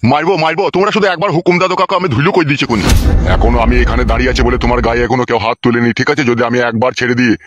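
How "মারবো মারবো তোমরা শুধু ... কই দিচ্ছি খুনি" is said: high, heated threat; angry threat. Acted. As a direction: beg to be let loose on him. Man threatens to beat accused.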